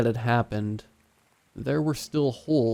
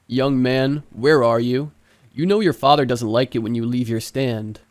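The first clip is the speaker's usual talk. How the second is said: louder stern father calling his son; calling out sternly; 6 dB louder than usual. Acted. Father searching the mall for his runaway son, calling out sternly and louder. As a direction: project it, a father hunting for a boy.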